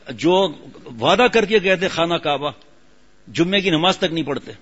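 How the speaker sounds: preacher scolding pilgrims who broke their word, loud; forceful preaching. Real, not acted. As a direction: hammer home the broken promise. Preacher rebukes broken promises.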